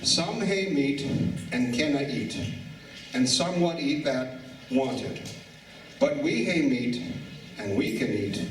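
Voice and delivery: slow grace recited in a Finnish accent. Shown as a demonstration. Mayor reciting the Scottish grace at the dinner, slow Finnish accent. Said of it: "I'm gonna do it with the Finn accent".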